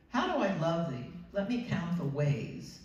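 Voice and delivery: reading a sonnet aloud to the class; poem reading. Shown as a demonstration. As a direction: read it like a love poem. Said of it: "let me just read you an example".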